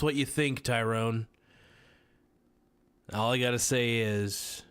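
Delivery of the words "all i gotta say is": ordinary delivery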